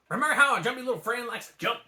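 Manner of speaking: fast, high excited dragon; excited to have solved it; Mushu. A narrator's reading. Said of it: "Mushu called".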